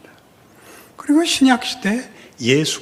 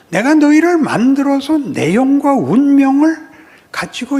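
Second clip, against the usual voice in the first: louder, higher rebuke as God; God scolding loudly; 5 semitones higher, 5 dB louder than usual. Acted. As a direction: scold your people from above, loud and high. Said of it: "하나님이 이렇게 꾸짖습니다".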